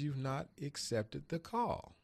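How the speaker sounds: slow, solemn pronouncement; lightly voiced God, slow and grave. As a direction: deliver it slowly like a divine verdict. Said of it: "he spoke to me in that audible voice".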